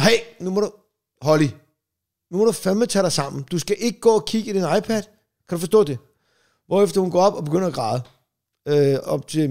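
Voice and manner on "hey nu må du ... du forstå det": stern telling-off. Retold or imitated. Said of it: "Så jeg er sådan".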